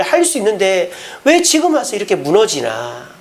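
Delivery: mildly exasperated lament; acted frustration, building a little in pitch; frustrated. Jesus frustrated at Peter falling apart, mildly exasperated. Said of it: "우리 주님도 답답하시겠죠".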